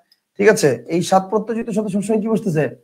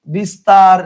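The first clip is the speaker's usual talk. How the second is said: emphatic example; 6 dB louder, much slower than usual. Shown as a demonstration. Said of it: "তাহলে খেয়াল করেন".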